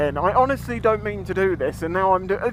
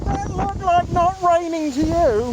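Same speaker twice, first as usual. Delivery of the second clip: mock the forecast dryly; sarcastic; 10 semitones higher than usual. Real, not acted. Sarcastic about rain forecast.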